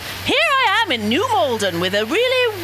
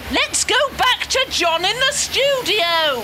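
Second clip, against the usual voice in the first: slower, clearer repeat; 2 semitones higher than usual. Real, not acted. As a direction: say it again, slowly.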